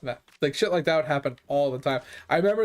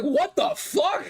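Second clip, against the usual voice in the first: high, slow, stunned "what the fuck"; jaw-on-the-floor disbelief, drawn out; shocked disbelief; much slower than usual. Retold or imitated. Gym guy watching his max get repped, stunned disbelief.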